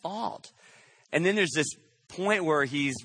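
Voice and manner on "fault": very slow, drawn-out reassurance; tender insistence. Retold or imitated. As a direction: let each word land slowly and kindly. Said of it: "he says it again".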